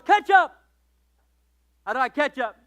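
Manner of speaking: put-on high, loud delighted child's shout; overjoyed kid shouting his topping; thrilled kid. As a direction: burst out with joy like a little boy. Boy thrilled to choose topping.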